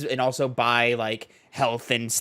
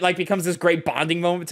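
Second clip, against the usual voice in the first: ordinary delivery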